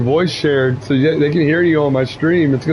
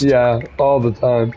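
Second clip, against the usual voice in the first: sarcastic; 4 semitones lower, slower than usual. Real, not acted. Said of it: "How could you not catch the sarcasm".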